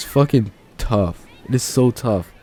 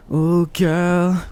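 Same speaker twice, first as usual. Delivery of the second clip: put-on much higher, crooned "Oh, girl" like the R and B singer; imitating the singer; 8 semitones higher than usual. Fan imitating his favorite singer's line, high crooning. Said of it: "the way he goes".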